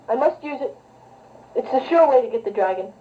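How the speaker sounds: deep, grave royal voice; low king voice. Pretend. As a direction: speak like a solemn old king.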